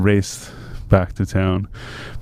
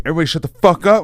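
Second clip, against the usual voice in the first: higher, fast mock order to shut up; trying to be serious; 6 semitones higher, 4 dB louder, faster than usual. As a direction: imitate urgently calling giggling friends to order. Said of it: "I'm trying to be so serious".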